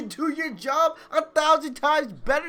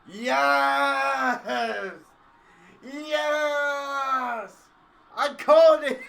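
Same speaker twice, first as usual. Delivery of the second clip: triumphant yes; 3 semitones higher, much slower than usual. Real, not acted. Celebrates his prediction.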